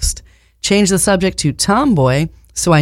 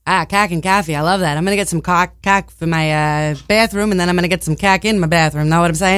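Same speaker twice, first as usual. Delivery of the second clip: put-on Boston accent; much faster than usual. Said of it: "Boston accent".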